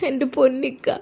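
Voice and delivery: acted sobbing plea to a brother; weeping, words broken by sobs; tearful sobbing. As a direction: cry out brokenly between gasps. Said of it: "Muhsina പൊട്ടിക്കരഞ്ഞു".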